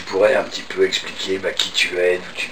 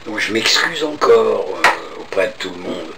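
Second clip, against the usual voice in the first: real lost voice, hoarse and rough; cavernous hoarse voice. Real, not acted. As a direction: talk through a real case of laryngitis. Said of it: "de cette voix caverneuse".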